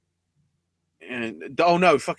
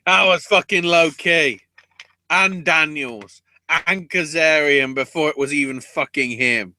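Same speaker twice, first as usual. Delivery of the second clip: excited; 4 semitones higher, 6 dB louder than usual. Real, not acted. Excited listing of past opponents.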